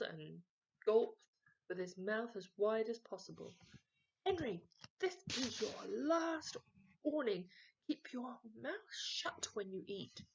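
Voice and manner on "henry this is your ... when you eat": louder angry dad warning; shouting. A narrator's reading. Dad warns son at dinner, angry shout. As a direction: bark the last warning as a cross father. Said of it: "shouted Dad".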